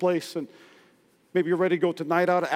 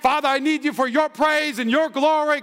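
higher, fervent mock prayer; 5 semitones higher than usual. Worker on a prayer break, mock fervent prayer. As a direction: plead to Jesus, lightly hammed-up. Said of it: "You're like".

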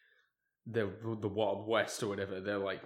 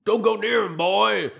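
mock villain warning; 9 semitones higher, 13 dB louder, slower than usual. Voicing the villain in the scene.

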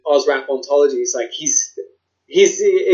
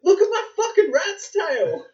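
broad laughing Aussie bloke voice; aussie tradesman; 10 semitones higher, slower than usual. Pretend. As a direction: play the dockside larrikin, laughing. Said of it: "back on the docks with my homies".

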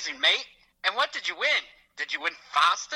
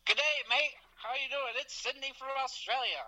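higher, hammed-up Aussie caller Sydney; Australian accent; 6 semitones higher, 5 dB quieter than usual. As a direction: play it up as a cheery Australian bloke. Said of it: "this Australian accent".

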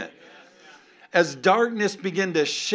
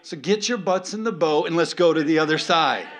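rallying call; 6 dB louder than usual. Acted. Jesus rallying the disciples.

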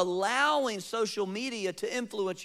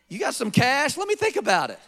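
greedy interest; 4 semitones higher, 5 dB louder than usual. Retold or imitated. Greedy prophet tempted by money.

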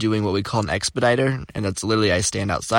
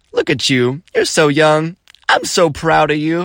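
higher, louder proud gushing; gushing customer; 5 semitones higher, 5 dB louder than usual. Retold or imitated. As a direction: imitate a lady gushing with pride. Customer gushing over young manager.

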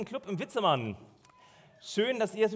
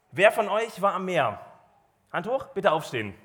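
der Menge zurufen; 6 dB louder than usual. Real, not acted. Ruft der Gemeinde Aufforderungen zu.

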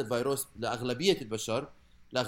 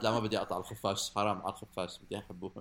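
soft and affectionate, fading softer; tender; 5 semitones lower, 4 dB quieter than usual. Pretend. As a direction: coo gently over the bat. Softens toward the bat.

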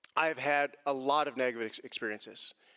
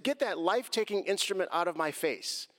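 raised-pitch, emphatic demand; retold indignant protest; 6 semitones higher than usual. Driver to officer holding a gun, indignant demand. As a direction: replay a heated demand to the officer. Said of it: "I said".

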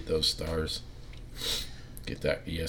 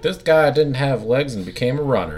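dramatic announcer; 8 semitones higher, 9 dB louder than usual. Retold or imitated. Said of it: "They're like".

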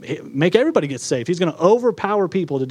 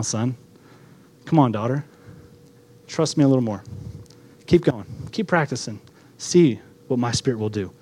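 lower, gentle coaxing with pauses; mildly tender fatherly encouragement; encouraging heavenly Father; 4 semitones lower than usual. Acted. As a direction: urge a child on patiently. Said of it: "I encourage it. That's your heavenly Father to you".

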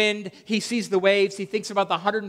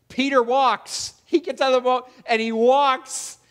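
dramatic emphasis; 6 semitones higher, 6 dB louder than usual. A narrator's reading. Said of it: "dramatic retelling, slow emphasis".

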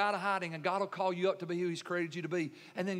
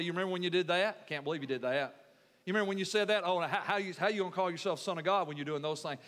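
low, quick, needling accuser; lightly voiced accuser, talking fast; accusing Satan; 4 semitones lower, faster than usual. Preacher plays Satan raking up someone's past, accusing. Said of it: "point back to his past and say".

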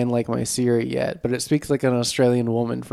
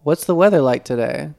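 talking to Siri; 4 dB louder than usual. Retold or imitated. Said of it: "talking to Siri".

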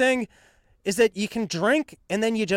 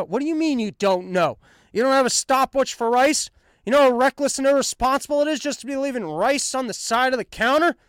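mock outraged scolding; 6 semitones higher than usual. Acting out scolding his mom.

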